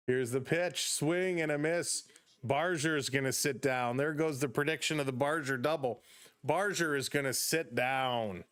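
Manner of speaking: lifted, brisk ballgame call; play-by-play call. Acted. Streamer calling the Blue Jays game for chat, upbeat play-by-play. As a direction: call the innings like a radio announcer.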